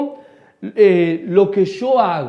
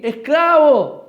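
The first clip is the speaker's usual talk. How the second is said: llamada fuerte y lenta; grito; 5 semitones higher, 4 dB louder, slower than usual. Pretend. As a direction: grita esclavo a lo lejos, arrastrando la palabra. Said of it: "voy y grito aquí". (llamando a gritos y despacio)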